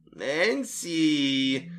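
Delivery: gurgling monster croak; hoarse gurgling voice. Acted. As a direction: croak the name through water. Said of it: "хриплый булькающий голос". (хриплый булькающий голос)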